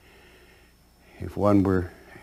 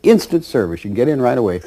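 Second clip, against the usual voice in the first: laughing salesman; 6 semitones higher, 4 dB louder than usual. Retold or imitated. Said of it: "he says".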